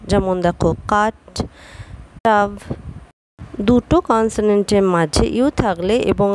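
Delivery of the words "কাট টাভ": কাট and টাভ with a short 'a' vowel; short u sound. Shown as a demonstration. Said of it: "আ উচ্চারণ হয়". (কাট টাভ-এ আ ধ্বনি)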